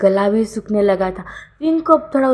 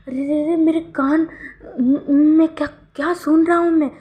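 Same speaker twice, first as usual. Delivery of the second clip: astonished; 7 semitones higher than usual. A narrator's reading. Stunned by sweet words.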